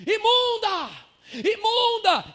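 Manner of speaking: sharp high shouts of disgust; crowd shouting. Retold or imitated. Preacher voicing the crowd shouting at the woman, high scornful yell. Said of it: "imagina as pessoas gritando assim".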